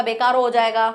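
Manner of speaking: बेकार with an added final o; wrong inflected form. Shown as a demonstration. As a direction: end बेकार on o, be-kaa-ro. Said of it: "नहीं ऐसा नहीं होगा".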